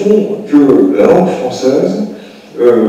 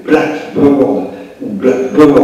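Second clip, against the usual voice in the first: blackbird said slowly, stress first on black, then on bird; contrasting English stress; much slower than usual. Shown as a demonstration. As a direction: slowly set blackbird against blackbird with the stress moved. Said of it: "pour un anglais". (blackbird dit lentement, accent d'abord sur black puis sur bird)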